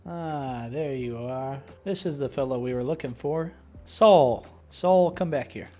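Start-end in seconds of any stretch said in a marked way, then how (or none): 3.8-5.7 calling out. Acted. Calling to a character.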